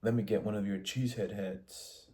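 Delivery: a light, teasing put-on American accent; mock American accent. Asha teasing Todd, lightly imitating an American accent. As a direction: tease him with a lightly hammed American accent. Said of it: "Asha was making fun of the American accent".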